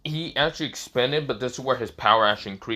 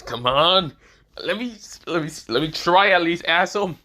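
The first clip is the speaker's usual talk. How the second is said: higher, louder pleading; exasperated begging to have a go; insistent protest; 4 semitones higher, 4 dB louder than usual. Acted. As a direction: protest heatedly, stumbling into it. Character pleads and argues to try.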